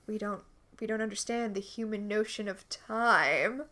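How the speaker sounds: mock-solemn otherworldly ruler; alien monarch. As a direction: play a hint of a detached alien monarch. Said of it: "the monarch's all like".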